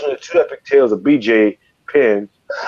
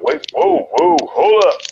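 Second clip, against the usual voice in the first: high-pitched whoa, hold up, backing away; sudden jump up in pitch to calm a brawl; alarmed high backing off; 12 semitones higher, slower than usual. Retold or imitated. Retold bar fight, backing off high and startled.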